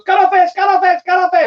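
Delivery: high, loud excited Gungan voice; Jar Jar voice. Retold or imitated. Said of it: "Jar Jar goes".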